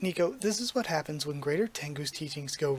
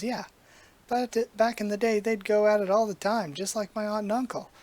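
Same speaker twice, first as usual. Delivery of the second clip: talking umbrella; 2 semitones higher than usual. Acted. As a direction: play the cocky umbrella like an old movie tough. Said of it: "why is it talking like Mister Tora?".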